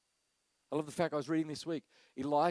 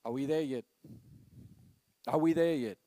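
put-on whiny kid; 4 dB louder than usual. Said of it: "Any parent will know".

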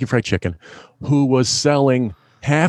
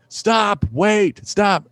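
manager yelling; 7 semitones higher, much slower than usual. Retold or imitated. Manager yelling after him.

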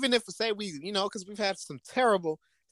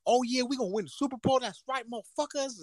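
mock cocky boast; 8 semitones higher than usual. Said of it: "be like".

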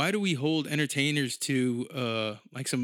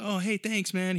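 higher-pitched, imitated bashful thanks; almost embarrassed; 6 semitones higher, slower than usual. Retired fighter thanks a fan who recognized him, mildly embarrassed. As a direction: play a fighter sheepish at being recognized. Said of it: "almost embarrassed that I recognized him".

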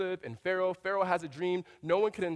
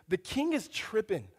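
slow, drawn-out "The king is tripping"; slangy paraphrase; 3 semitones higher than usual. Retold or imitated. Pastor paraphrasing Daniel's reply, slangy and slow. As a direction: lean into the slang casually.

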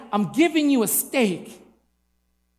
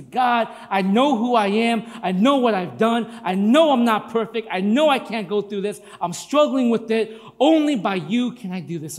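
modelled prayer; 3 dB louder than usual. Shown as a demonstration.

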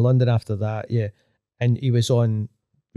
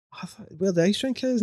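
higher, softer puzzled dad voice; a lightly mocking take on a confused father; imitating his dad; 8 semitones higher, 5 dB quieter than usual. Dad's puzzled reply imitated.

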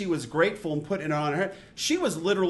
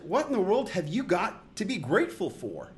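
incredulous. Retold or imitated. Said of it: "Just sort of incredulous".

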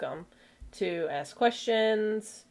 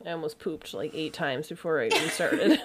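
giggling; 5 semitones lower than usual. Real, not acted. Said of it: "we apologize for the giggles".

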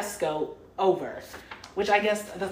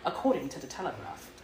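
put-on half-hearted British accent on a news report; amateur, lightly put-on British accent; 6 dB quieter than usual. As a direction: try a British accent and let it slip. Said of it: "too high to speak in a British accent".

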